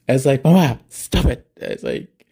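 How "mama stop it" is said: exasperated protest. Retold or imitated. Retelling argument with mom.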